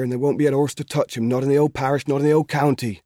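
a keen lad pleading for his father; lightly voiced country boy, earnest; young Albert. Albert boasting of his horse.

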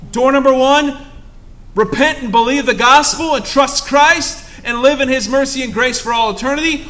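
loud, high fervent warning; forceful gospel ultimatum; preaching at full force. Acted.

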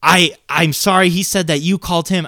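imitated apologetic caller; changed, apologetic tone. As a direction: act out an embarrassed mom backing down. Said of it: "and then different tone".

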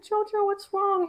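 high, slow, tender question; concerned mother. Retold or imitated. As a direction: gently retell a worried mother's asking. Mother worried by crying child.

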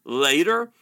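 loud but restrained mock scream; narrated scream. A narrator's reading. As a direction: raise the volume, pitch barely moving. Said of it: "his voice rose to a scream".

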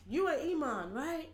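lightly voiced street evangelist; mimicked preacher, questioning lilt; imitated train preacher. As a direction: accost a stranger as the preacher would. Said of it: "he's like, [West African man on train]".

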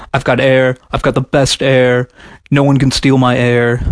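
lightly voiced Trump parody, level monotone; a half-hearted go at Trump's boastful voice; Trump impression. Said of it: "that was my best Trump impression".

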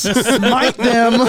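mock smiting. Mocking delight at God's judgment.

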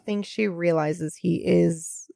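soft hushed whisper. Real, not acted. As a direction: drop to a breathy whisper. Emotional point about Michael's vulnerability.

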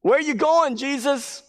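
high, loud mock-clueless question; hammed-up high-pitched interruption; comic blurting. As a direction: blurt it out as if you missed everything. Peter blurts, ignoring the command.

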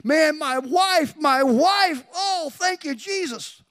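high, loud, slow mock wail; imitated crying and sobbing. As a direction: cry out overwhelmed with gratitude, imitating the husband. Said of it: "just crying and sobbing".

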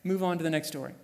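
breezy, mock matter-of-fact; matter-of-fact dismissal. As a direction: tick it off and move on. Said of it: "read it in this tone of going".

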